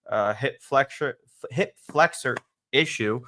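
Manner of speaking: lisping on hip flexor. Real, not acted. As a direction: hip flexor said with a slushy lisp. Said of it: "Sorry for the lisp there".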